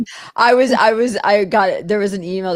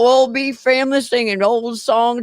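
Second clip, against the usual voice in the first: a hint of folksy cult-leader cheer; imitated Manson. Inviting the family to sing together, lightly put-on voice. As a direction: lightly play the welcoming family man. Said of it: "video with Manson where he's like".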